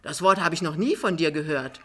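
lightly voiced, blustering denial; protesting Jachmann. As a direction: contradict her firmly. Jachmann widerspricht Frau Pinneberg. (energisch widersprechend, leicht gespielt)

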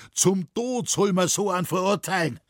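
high, indignant outburst; angry father's exclamation, pitched high; calling out. A narrator's reading. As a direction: pronounce the sentence in outrage. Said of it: "rief der alte Schränk".

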